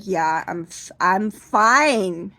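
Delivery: hammed-up insistence; flustered insisting. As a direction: beg her to stop asking. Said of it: "And I said".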